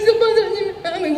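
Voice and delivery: imitating a tearful, laughing plea, high and drawn out; mock-crying out to the sponsor, slowly; retold husband calling the sponsor through tears. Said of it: "울면서 막 저한테".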